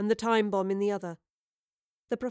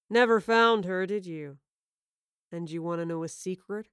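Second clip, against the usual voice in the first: taunting villain; 2 semitones lower than usual. A narrator's reading.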